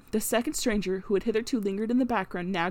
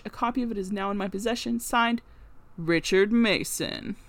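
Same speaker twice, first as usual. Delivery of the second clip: nasal, official reading tone. Acted. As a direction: read it like a clerk's document. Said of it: "read out in a sort of official nasal voice".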